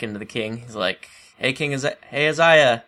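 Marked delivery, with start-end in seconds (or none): 1.4-2.8 eager messenger. Retold or imitated. Messenger bursting in on king.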